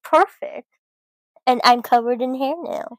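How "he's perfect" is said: high, loud adoring gush. Real, not acted. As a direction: gush over the dog. Gushing over the foster dog.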